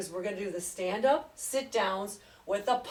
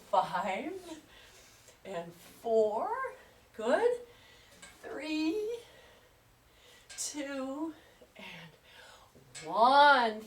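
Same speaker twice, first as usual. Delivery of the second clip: breathy whispered count; much slower than usual. Real, not acted. Final count of exercise set.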